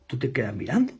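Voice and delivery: soft whispered challenge. Retold or imitated. Salesman quietly daring the prospect to stand aside. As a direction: murmur the dare, quietly.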